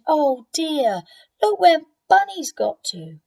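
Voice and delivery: high and loud; child spotting Bunny; excited discovery. Acted. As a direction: gasp it out. Debbie finds Bunny.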